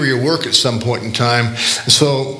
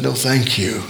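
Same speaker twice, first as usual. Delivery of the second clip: sadly; 3 dB quieter than usual. Retold or imitated. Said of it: "And very sadly".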